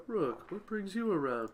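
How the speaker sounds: slow, rough-edged savage man; savage brute voice. Acted. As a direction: growl it out like the savage brother. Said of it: "I'm using his voice like that 'cause I know he's the more savage one".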